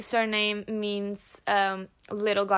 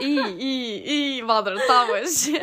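a touch of a fussing mother, laughing; lightly voiced nagging mom; 3 semitones higher, 8 dB louder, slower than usual. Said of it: "Joanna is like a mother to me".

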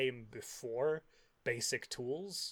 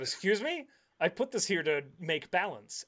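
indignant nature god; 6 semitones higher, 6 dB louder than usual. Retold or imitated. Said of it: "And the nature god".

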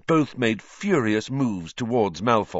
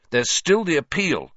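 raised, forceful insistence; fierce; 8 semitones higher, 4 dB louder than usual. A narrator's reading. Ron urging Hagrid not to lose hope, fierce. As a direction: push back with urgency. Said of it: "said Ron fiercely".

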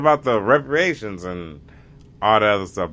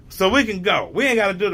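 freed slaves; 8 semitones higher, much faster than usual. Retold or imitated. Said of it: "They're like".

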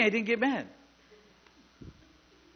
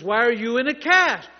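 raised, louder demanding question; acted yelling match; 4 semitones higher, 7 dB louder than usual. Healer badgering a man in a cast, acted angry yell. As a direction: press the question loudly, higher in pitch. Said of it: "were having a yelling match".

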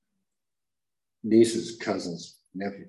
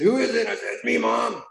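much higher retold exchange; voices at door; 13 semitones higher, 3 dB louder than usual. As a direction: act out mom and son at the door. Knocking at mom's door.

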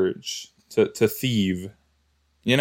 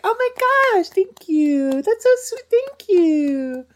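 put-on over-the-top girly gratitude; mock flattered squeal. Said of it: "start clapping your hands and you're like".

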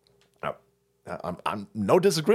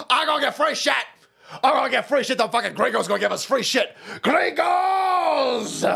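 higher mock Latino accent, shouting at the end; a hammed-up caricature of a migrant crowd; 9 semitones higher than usual. Migrants in camps, in a mock Latino accent, shouting. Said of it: "sitting there going".

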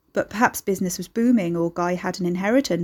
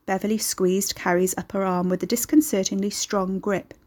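usual speaking voice

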